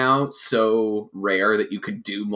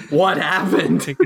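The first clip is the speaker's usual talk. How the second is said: laughing; 6 semitones higher, 4 dB louder, slower than usual. Real, not acted. Laughing repeat.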